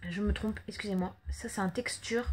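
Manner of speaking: hushed little correction; whispering. Real, not acted. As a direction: whisper it to yourself. Whispered correction after mistake.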